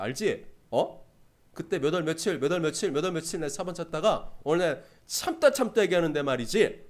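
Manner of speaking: half-hearted comic scolding at talking volume; mock telling-off. Preacher playing someone fed up answering back, mock scolding. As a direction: act out finally answering back, with prodding little checks. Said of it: "참다 참다 못해서 쏴붙일 때가".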